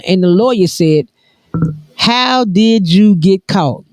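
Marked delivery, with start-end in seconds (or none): 2.0-3.9 laughing. Real, not acted. Lawyer line, laughing.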